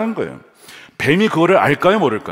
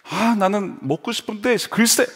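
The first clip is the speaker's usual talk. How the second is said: grumbling Eve; 5 semitones higher than usual. Acted. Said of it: "이런 식으로".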